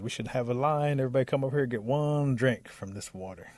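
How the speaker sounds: calling out orders. Acted. Bear addresses the gathered animals.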